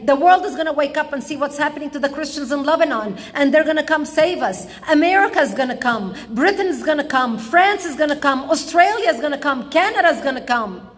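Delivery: father at the start promising rescue, eager and sure; hopeful father. Retold or imitated. The sure hope of a father, retold. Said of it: "my father would say".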